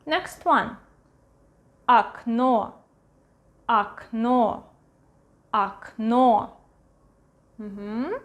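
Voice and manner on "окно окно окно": "Окно" said ak-NO, stress on the end; "Окно" as ak-NO for learners; unstressed O as A. Shown as a demonstration. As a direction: model "Окно" with first O as A. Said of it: "A, окно".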